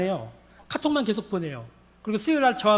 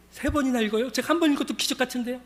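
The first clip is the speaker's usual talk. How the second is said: slightly high, incredulous question; acted mild astonishment; amazed disbelief; 4 semitones higher than usual. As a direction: question it as if too much. Woman amazed at reading three times.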